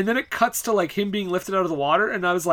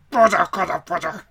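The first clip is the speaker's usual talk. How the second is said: exasperated Bob Hoskins. Retold or imitated. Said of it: "he's just like".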